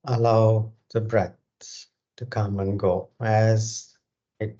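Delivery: measured meditation guidance with long, spacious pauses; guided meditation. Real, not acted. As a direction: guide them through breath awareness, phrase by unhurried phrase. Leads a breathing meditation.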